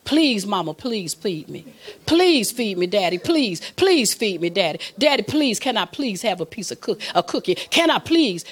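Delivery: mock pleading, each plea falling away and starting over; pleading child. Preacher acts out children nagging parents for food, pleading. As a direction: imitate a child begging a parent. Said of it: "they just start pleading".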